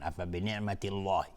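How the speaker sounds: thick, dark l and rounded vowel in الله; wrongly heavy Allah. Shown as a demonstration. Teacher repeating the mistake, heavy الله. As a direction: say الله heavy where it should be light. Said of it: "این اشتباهست".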